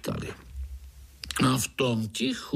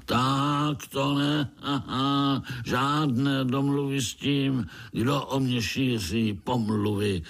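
roaring; 4 semitones higher than usual. Acted. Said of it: "zařval Piši Škvor".

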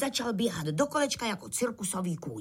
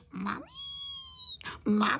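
mock wail with a squeaky rising end; tearful calling; 3 dB quieter than usual. A narrator's reading. Frightened little crickets cry for their mum, wailing. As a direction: bawl for mum, each call separate. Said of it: "zase brečeli ... a volali".

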